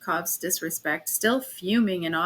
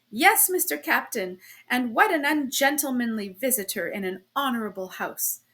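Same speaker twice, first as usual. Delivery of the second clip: put-on German accent. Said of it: "with a strong German accent".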